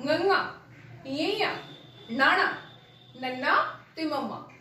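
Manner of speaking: each nasal letter ngੰਗਾ, ਯਈਆ, ਨਾਣਾ, ਨੰਨਾ, ਮੰਮਾ said slowly and clearly through the nose; careful nasal letters. Shown as a demonstration. Teacher shows pupils the right nasal sounds, clearly. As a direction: model the nasal sounds one by one. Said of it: "ਇਹਨਾਂ ਦਾ ਉਚਾਰਨ ਠੀਕ ਤਰੀਕੇ ਨਾਲ ਵੇਖੋ".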